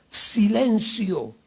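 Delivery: a slow, drawn-out shouted Silencio; Jesus silencing the storm with a firm shout; commanding shout. Retold or imitated. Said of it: "y gritó".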